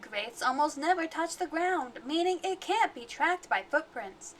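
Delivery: lightly voiced cheerful e-learning narrator; Dora e-learning voice. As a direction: read it like a kids' show host. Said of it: "that was my best Dora slash e-learning voice".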